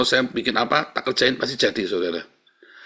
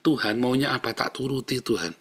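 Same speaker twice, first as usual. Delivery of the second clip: mild resignation, trailing off softer; surrendered prayer; 4 dB quieter than usual. Shown as a demonstration. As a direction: show how to yield to God in prayer. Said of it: "Pasrah, saudara".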